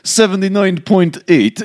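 slow, high announced reading; thermometer readout. Acted. Priest acting out the thermometer gun's reading, slow readout.

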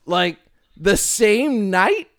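slow, rising disbelief; incredulous. Real, not acted. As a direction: sound outraged at the idea. Indignant rhetorical disbelief.

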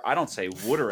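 "wooder", broad Delco water; Delco accent. Shown as a demonstration. To his friend, "wooder" in a Delco accent. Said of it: "that Delco trash accent".

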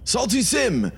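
high called-out summons across the museum; calling out. Acted. Amar calling out to his companion Sim across the room, high call.

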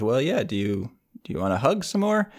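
sheepish ask, pitch jumping up at the end; imitated sheepishness. Finn asks princess for another hug, acted sheepishly. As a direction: act out a bashful, hopeful request. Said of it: "rather sheepishly".

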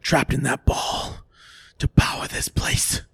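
put-on breathy ghost girl whisper; man doing a woman's voice. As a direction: whisper it like a trapped ghost child. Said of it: "She responds".

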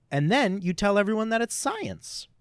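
hushed conspiratorial whisper. Pretend. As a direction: whisper it like a dark secret. Mock sinister grave-robber punchline.

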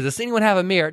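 lightly voiced request for a mirror; mildly acted request. Retelling the woman asking for a mirror, mildly acted request.

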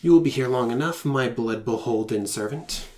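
a hint of a sinister demon lord. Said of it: "doing a more sinister voice than a squeaky voice for Ember Snarl".

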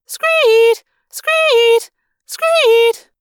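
high, loud siren screech; piercing mechanical alarm wail; alarm shriek. A narrator's reading. Alarm howling again.

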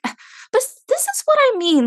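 high-pitched exasperated retort. Retold or imitated. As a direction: throw up your hands, pitch way up.

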